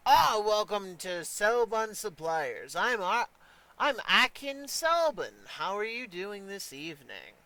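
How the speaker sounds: lightly voiced merchant, pitch lifted; welcoming shop owner. Supply merchant greeting visitors at his desk, lightly acted welcome. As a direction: greet customers as the proprietor.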